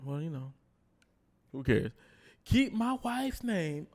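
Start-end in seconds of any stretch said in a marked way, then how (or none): 2.5-3.9 slow, higher mock shout of Will; hammed-up retold yell. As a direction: imitate the yell at the Oscars. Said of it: "Oh, why he yelling for?".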